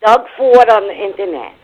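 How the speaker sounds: high, loud mock impression; hammed-up mimicry of a radio host; imitating the co-host. Caller teases the host about his speech, exaggerated imitation. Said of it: "I do not talk like that".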